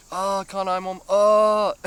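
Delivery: very high, loud frantic squeal through laughter; panicked cry. Retold or imitated. Mocking his own panic to the viewers, squealing high and laughing. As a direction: shriek it half laughing at the memory. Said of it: "But I was freaking out".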